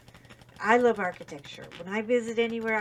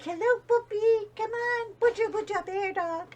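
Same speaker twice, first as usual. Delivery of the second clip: much higher, louder cooing puppy voice; baby talk to dog; 12 semitones higher, 4 dB louder than usual. Shown as a demonstration. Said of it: "why do we always do baby talk to our dogs".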